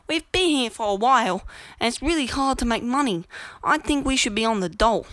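a hint of mimicked British whine; mock pommie accent. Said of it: "all these other pommies".

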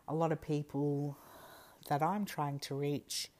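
talking between sips; while sipping a drink. Real, not acted. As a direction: speak around a sip of drink. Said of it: "Sorry, I'm drinking again".

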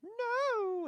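high, loud curt no; flat refusal. Retold or imitated. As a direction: snap a sharp high no. Stepmom refuses the move.

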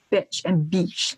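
bitch then beach, short i then long ee. Shown as a demonstration. Teacher contrasting vowels for a learner, bitch then beach. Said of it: "the long E and short E".

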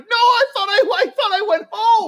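retold man sounding baffled and high; baffled drunk. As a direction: sound bewildered. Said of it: "And he's like".

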